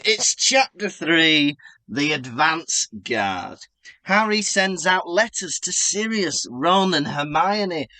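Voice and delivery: measured, lightly dramatic chapter announcement; storytelling recap. Acted. Performs a chapter rundown.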